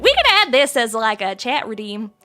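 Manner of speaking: put-on country Southern accent. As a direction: speak like a Southern hick. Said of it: "I can do a little bit of a Southern accent".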